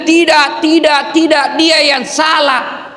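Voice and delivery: a touch of a sulky inmate shifting blame; mocking denial. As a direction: mimic a defensive prisoner. Mocking an inmate who blames the victim.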